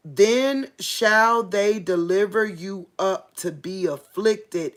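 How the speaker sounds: slow, emphatic Bible reading; measured preacher reading from the Bible; scripture reading. Real, not acted. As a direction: read the verse out slowly and solemnly, drawing out the key words. Reads scripture aloud to listeners.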